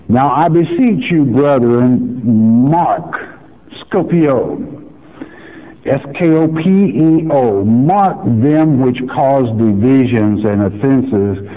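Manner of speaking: slow, emphatic Bible reading, rising on contrary; lightly heightened preacher's reading voice; scripture reading. Acted. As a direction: read the verse with weight. Reads scripture aloud.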